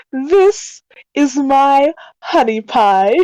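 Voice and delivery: slow, doting and proud. Acted. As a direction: present the donkey lovingly. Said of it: "and I'm just like".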